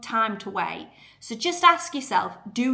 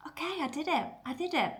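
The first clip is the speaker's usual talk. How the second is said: relieved achiever; 6 semitones higher, 6 dB quieter, faster than usual. Acted. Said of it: "at the end you'll go".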